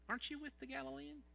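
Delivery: lightly voiced accusers, fast and probing; accusing bystanders. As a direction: needle him like a suspicious crowd. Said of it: "And people were going".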